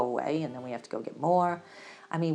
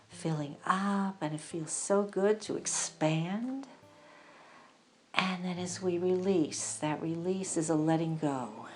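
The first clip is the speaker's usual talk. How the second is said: guided breathing meditation. Acted.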